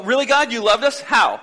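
lightly hammed-up disbelief; mock disbelief. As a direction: play the doubtful crowd. People doubt God.

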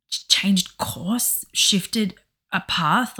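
a slow hushed aside; breathy hush. Real, not acted. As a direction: let it drift out under the breath. Dreamy aside after trailing off.

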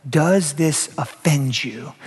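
slow, measured delivery, somewhat softened; slow question. Acted. Jesus testing the disciples' loyalty, slow deliberate question. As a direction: draw each word out gravely.

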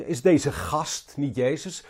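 slow, mildly belittling question; denigrerend. Retold or imitated. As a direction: look down on him a little, slowly. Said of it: "Ze spreken wat denigrerend over hem". (licht neerbuigend, langzaam gevraagd)

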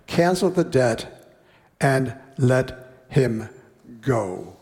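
measured, unhurried Bible reading; slowing on the king's sentence; scripture reading. Acted. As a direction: read the parable to the congregation. Reads scripture passage aloud.

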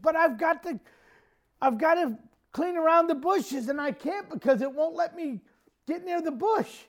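high-pitched, exasperated complaint; imitated frantic protest. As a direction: plead helplessly, mimicking a frightened relative. Sister-in-law's frantic protest to mom.

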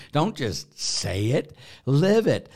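rising to a loud, high "live it"; emphatic exhortation. Real, not acted. Priest urging viewers to live the rosary, building to a loud high cry. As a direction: punch "live" hard, preacher-style.

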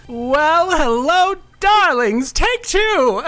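high glamorous diva host; femme fatale. Acted. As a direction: coo it like a sultry showgirl. Hosts in her show persona.

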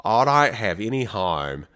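put-on Australian accent. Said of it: "Their O's are so weird".

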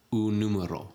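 "un número" run together as one word; linked Spanish vowels. Shown as a demonstration. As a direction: blend "un número" with no gap. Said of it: "You would say".

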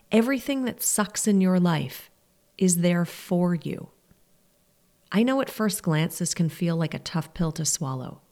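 ordinary talk, nothing marked

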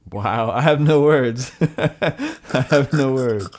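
hysterical laugh. Real, not acted. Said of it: "why are you laughing like that?".

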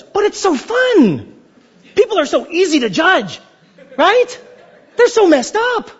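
high, laughing, relishing it; gleeful judging. Acted. The preacher mocking himself, gleefully judging with laughter. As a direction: savor the judging with a giggle. Self voiced enjoying judging.

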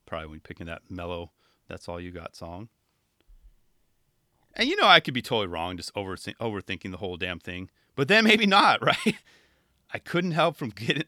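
ordinary delivery

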